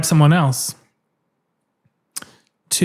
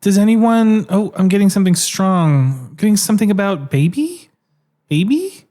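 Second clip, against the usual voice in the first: higher mock psychic voice; TV medium; 4 semitones higher than usual. TV medium reads the studio audience, higher and mock-mystic. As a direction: fish for a vision, a touch theatrical. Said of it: "they'd be like".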